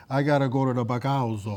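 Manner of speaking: put-on thick Italian immigrant accent. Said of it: "with a thick Italian accent".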